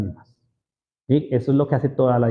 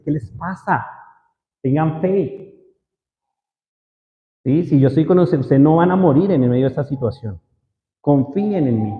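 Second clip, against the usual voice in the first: gentle confronting. Retold or imitated. Jesus confronts the frightened disciples, gently. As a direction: ask why, then calm them. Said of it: "Dios los confronta así y les dice".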